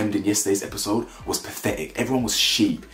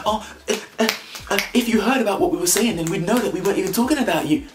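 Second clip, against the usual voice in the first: mocking high voice; 9 semitones higher, faster than usual. Mocking Jessie's feedback, high loud.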